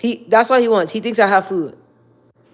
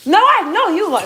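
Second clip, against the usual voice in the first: lightly sassy, higher catchphrase; 11 semitones higher, 5 dB louder than usual. Retold or imitated. Telling the dog she knows he's lying, sassy. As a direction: tease the dog with your pet line. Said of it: "that's my favorite thing to say".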